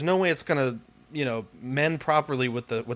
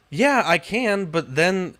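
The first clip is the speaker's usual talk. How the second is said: exasperated protest; 6 semitones higher, 5 dB louder, much slower than usual. Retold or imitated. Retold protest to homeowners' advice.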